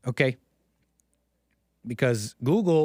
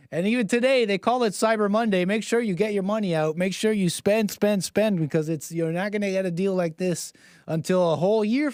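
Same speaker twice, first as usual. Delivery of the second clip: higher, pushy hammed-up ad voice; mock sales pitch; 3 semitones higher than usual. Mocking shoppers, a hammed-up Black Friday ad pitch. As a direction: parody a hard-sell commercial.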